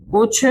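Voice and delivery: कुछ sung out high and long; stressed answer. Shown as a demonstration. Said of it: "क्या बोलते हैं?". (कुछ को ऊँचे सुर में ज़ोर देकर)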